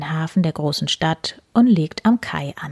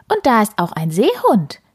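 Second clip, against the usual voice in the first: excited cub; 5 semitones higher, 3 dB louder than usual. Acted. Cub points at stars.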